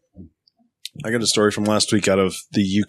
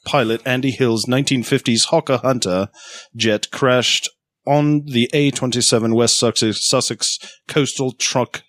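lightly put-on British accent, slowing near the end. Shown as a demonstration. Still attempting a British accent on the news story. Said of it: "Let me try it again".

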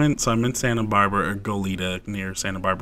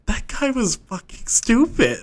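laughing; 12 semitones higher, slower than usual. Retold or imitated. Grown kid scoffing.

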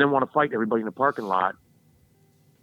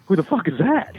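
mock confused outburst; 8 semitones higher, 5 dB louder than usual. Confused kid asking mom.

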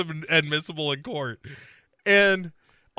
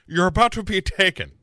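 lightly put-on Irish accent, louder; mock-threatening Irish accent; 4 semitones higher, 4 dB louder than usual. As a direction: do a menacing Irish movie threat. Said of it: "in an Irish accent".

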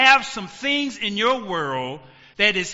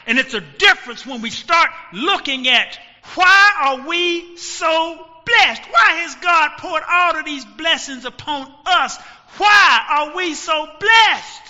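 preaching at full force; 4 semitones higher, 5 dB louder than usual. Real, not acted. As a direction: lift the room on every word. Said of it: "preaching climax on the title".

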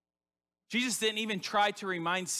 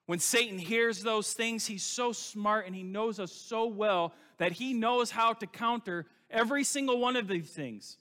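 higher, louder and slower; forceful preaching; 6 semitones higher, 4 dB louder than usual. Real, not acted. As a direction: lean into every word with preacher force. Preacher presses the point.

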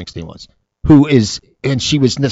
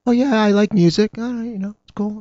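mock clueless bartender; 12 semitones higher than usual.

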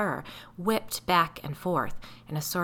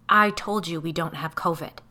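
snapped; 6 dB louder than usual. Acted. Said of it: "Frank snapped".

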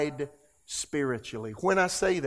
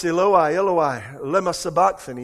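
crying out to God, raised voice; loud cry; 4 dB louder than usual. Retold or imitated. Preacher quoting Jesus on the cross, loud cry. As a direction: call it out loud. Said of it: "with a loud voice".

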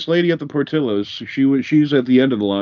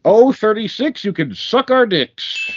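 bingo caller; 9 semitones higher, slower than usual. Acted. Rhyming bingo call game.

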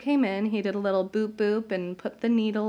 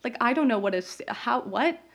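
shocked disbelief; 4 semitones higher than usual. Retold or imitated. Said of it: "I was sobbing 'cause I was like".

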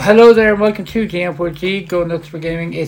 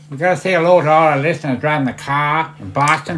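mock Boston accent, dropped r's; hammed-up Boston greeting. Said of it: "it's a Boston accent".

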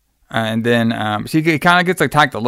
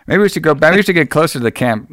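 mild retold complaint, slightly raised; complaining; 4 semitones higher, faster than usual. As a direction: lightly imitate a girl's hesitant complaint. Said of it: "first she complains a little bit".

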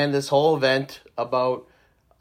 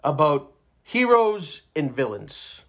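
mock epic narrator. Podcaster teases the group with a fake epic story opener. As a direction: intone it like a grand saga opening, tongue in cheek. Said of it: "I'm just messing around".

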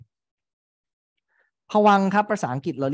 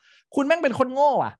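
insulting stranger; 12 semitones higher, 4 dB louder, slower than usual. Retold or imitated. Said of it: "มีคนเดินมาบอกว่า".

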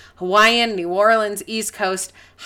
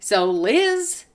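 measured, put-on podcast host; radio and TV voice. Shown as a demonstration. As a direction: lightly play the broadcaster signing off. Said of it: "there's a radio and T V voice".

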